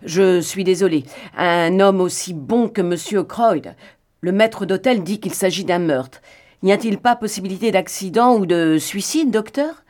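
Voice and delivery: a hint of the concerned police inspector. Reader voices the inspector.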